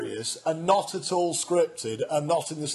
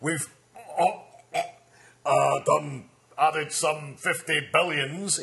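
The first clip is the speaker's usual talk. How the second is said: impression. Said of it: "to do an impression of that, if you imagine I'm Gordon McBroom".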